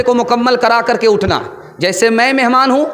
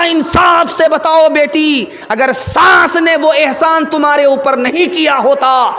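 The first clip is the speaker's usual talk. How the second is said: mother's raised voice; 4 semitones higher than usual. Acted. Mother scolds daughter.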